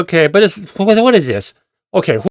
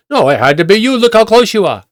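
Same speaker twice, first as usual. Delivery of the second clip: raised-pitch retold blame that won't let go; mock irritating insistence; 7 semitones higher than usual. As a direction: imitate a nagging accuser. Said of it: "She's being very irritating".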